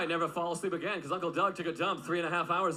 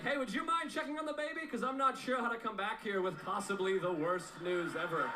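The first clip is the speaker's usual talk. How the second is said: nervous ask; 5 semitones higher than usual. Retold or imitated. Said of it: "I was like".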